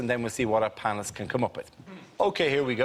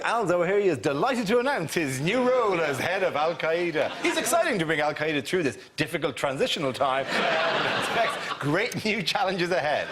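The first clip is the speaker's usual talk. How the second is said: mock press statement; 3 semitones higher than usual. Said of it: "I didn't think it was like".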